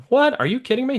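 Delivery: stunned disbelief. Retold or imitated. Man handed a huge check by a stranger, stunned disbelief. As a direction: blurt it out like you can't believe the gift.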